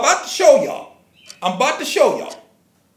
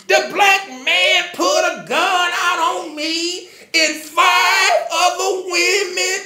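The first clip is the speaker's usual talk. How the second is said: high slow mock crying singsong; mock sing-song wail; 4 semitones higher, slower than usual. Mocking the woman's tearful video in a fake sobbing singsong. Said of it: "She's crying and boo-hooing".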